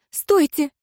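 high, panicked pleading cry; desperate wife begging the adviser to spare the children; frightened cry. A narrator's reading. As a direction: stop him, voice leaping up in fear. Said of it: "и вскрикнула".

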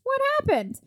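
very high-pitched demand for answers; comic incredulity. Acted. Host questioning the vanished knight, comically incredulous. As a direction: squeak it out in disbelief.

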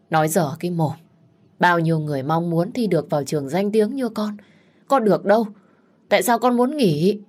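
to dần, gắt lên ở cuối; trách con, cao và to ở câu hỏi; mắng con. Acted. (mẹ gắt mắng con gái)

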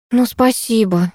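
slow, drowsy grumble; sleepy grumble. Acted. Майя, just woken, grumbles at the puppy sleepily. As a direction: mumble it half awake. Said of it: "заспанным голосом буркнула я".

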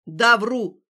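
loud defiant yell; shouting back. Acted. Stas catching her wrist, shouting so passers-by turn. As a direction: throw the admission back at her. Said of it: "крикнул он".

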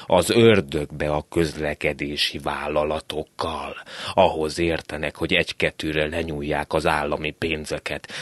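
a hint of a cranky old man ranting; grumbling old man. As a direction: complain like a fed-up old man. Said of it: "morgolódott az álmos öreg".

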